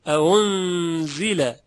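اعنزله very slow, gliding from a into u; slow, stretched اعنزله with a loosened second onset; eased second hamza. Shown as a demonstration. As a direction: draw out اعنزله without a hard second catch.

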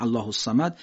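"الصمد" with the صاد hissed then opened; whistled sad. Shown as a demonstration. Quran teacher showing the whistling صاد. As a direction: stretch the hiss of "الصمد" before the vowel.

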